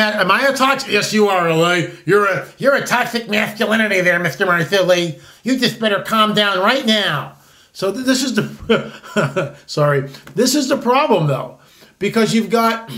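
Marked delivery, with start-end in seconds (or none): 0.9-7.4 mock scold.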